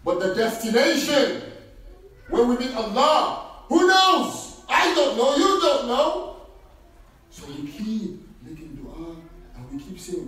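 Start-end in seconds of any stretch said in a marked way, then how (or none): 3.7-6.4 high, loud rhetorical question; emphatic rhetorical. Real, not acted. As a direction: throw it out to the crowd.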